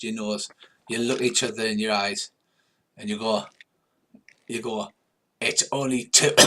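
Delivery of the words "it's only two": words broken off by a put-on cough; coughing mid-sentence. Failed attempt to intimidate, breaking into a cough. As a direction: break into a cough as you speak. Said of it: "and start coughing".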